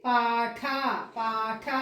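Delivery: పాఠ with a puff of air on ఠ; long paa, breathy release on ఠ; aspirated tha. Shown as a demonstration. Teacher showing what the changed spelling gives, పాఠ aspirated. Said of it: "ఒకవేళ ఇక్కడ ఠ పెట్టామనుకోండి".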